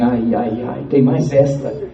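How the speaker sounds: mildly mocking, drawn-out scoff. Young man scoffing at the church's name, mocking. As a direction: scoff at it with a weary "ai, ai". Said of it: "um tom de deboche".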